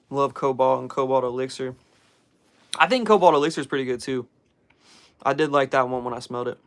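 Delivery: talking while chewing gum. Real, not acted. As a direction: chew gum between words. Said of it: "Sorry, I'm chewing gum".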